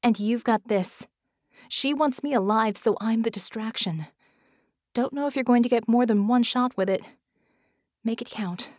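brief him firmly on the plan; Vicky, urgent. Acted. Handing him her blade and giving orders, urgent.

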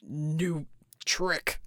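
breathless deep strained voice; gasping. A narrator's reading. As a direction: force it out between breaths. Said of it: "he gasped".

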